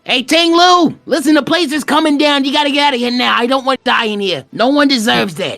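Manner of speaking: high, urgent shouted warning. Acted. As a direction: yell it like the place is collapsing. Character yells warning to Ting Lu.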